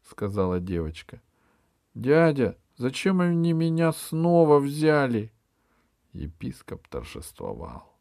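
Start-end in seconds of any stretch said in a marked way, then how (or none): 1.9-5.3 put-on high, small child voice; little girl. A narrator's reading. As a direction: speak like a timid little girl. Little girl's voice. (голосок маленькой девочки)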